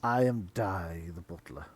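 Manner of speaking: low, quiet butler; deep muttering butler. Acted. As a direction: introduce yourself as a gloomy servant. GM voices butler.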